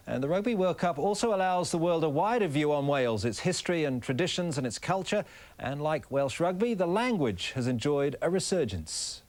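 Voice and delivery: scripted reporter voice, lifted key words; measured, lilting news-package narration; TV feature report read. Acted. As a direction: present it as a light travel feature.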